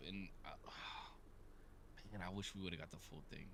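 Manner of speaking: soft, sighing and breathy; wistful sigh. Real, not acted. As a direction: let it out on a sigh. Wishes he saw full eclipse.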